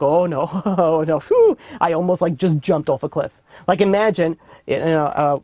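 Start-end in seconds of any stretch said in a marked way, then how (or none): 0.0-3.3 laughing relief. Retold or imitated. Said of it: "be like, shaking".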